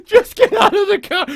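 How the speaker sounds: high, loud mocking snap at the kid; mock shrill order. Mimicking Stephanie ordering her kid out, high and loud. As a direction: bark it like an exasperated mother. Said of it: "She tells her kid".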